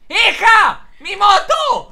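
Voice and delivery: outraged cry; shocked shout. Acted. Father discovering his missing motorbike, loud shout. Father sees bike gone.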